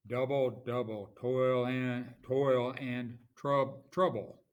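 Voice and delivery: "Double, double, toil and trouble" slow and firm, hammering each strong beat; trochaic stress. Shown as a demonstration. Teacher scanning trochee, "Double, double, toil and trouble" in deliberate beats. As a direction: punch DOU, TOIL and TROU in "Double, double, toil and trouble". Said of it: "where you have a stressed syllable followed by an unstressed".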